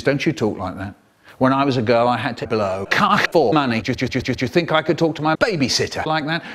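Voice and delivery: a hint of a stern mother; mum telling off. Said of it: "And she says".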